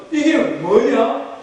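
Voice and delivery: drawn-out, puzzled question; puzzled wonder. Acted. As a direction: stretch it out in mild puzzlement. People first see the manna.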